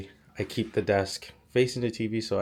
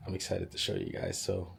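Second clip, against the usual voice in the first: talking with a cold; stuffy, under-the-weather voice; sick voice. Real, not acted. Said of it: "Don't mind my, uh, sick voice".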